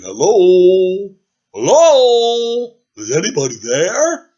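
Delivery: loud high calling into the woods. Acted. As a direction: call out from the cave mouth. Dragon calling out of cave.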